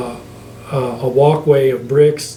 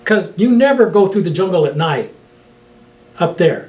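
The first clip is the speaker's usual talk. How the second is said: incredulous question; 4 semitones higher than usual. Retold or imitated. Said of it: "I said".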